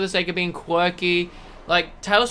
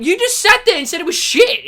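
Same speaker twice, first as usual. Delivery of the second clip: retold exasperated retort; 10 semitones higher, 6 dB louder than usual. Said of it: "And I went".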